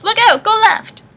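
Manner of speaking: very high, loud screeched warning; urgent high yell. A narrator's reading. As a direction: screech it like an alarmed old woman. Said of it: "the gray lady sitting in the middle screeched".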